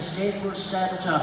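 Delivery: slow, drawn-out puzzled repeat; a slow confused echo of the name. Acted. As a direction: stretch it out, puzzled.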